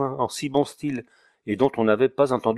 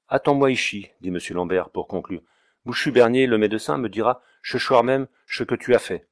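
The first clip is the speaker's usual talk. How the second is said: loud order; 4 dB louder than usual. Acted. Notary ordering water carrier.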